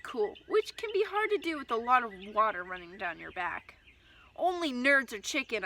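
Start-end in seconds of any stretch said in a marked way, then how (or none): 4.4-5.6 shouting. Acted. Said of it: "I shouted".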